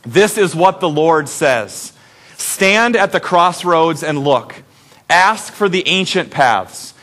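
slow, measured congregational reading; deliberate, evenly paced Bible recitation; reading scripture aloud. Acted. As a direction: lead the room phrase by phrase. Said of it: "Let's read it nice and loud".

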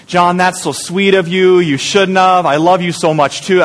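lightly voiced delighted wife, slow; a gentle mock of a moved wife; wife thanked for flowers, mildly gushing; touched wife. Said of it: "And she goes".

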